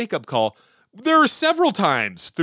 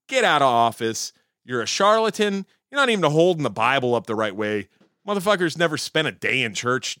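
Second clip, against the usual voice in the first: mock telling-off. The whole nation telling Trump off, mock angry. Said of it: "the population said".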